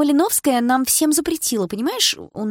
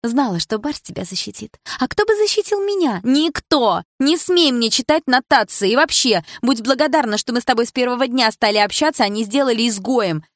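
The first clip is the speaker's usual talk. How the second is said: high, loud resentful tirade; angry rant; 6 semitones higher, 5 dB louder than usual. A narrator's reading. Milana accusing the narrator of stealing her friend, shouting. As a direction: shout your grievances at her.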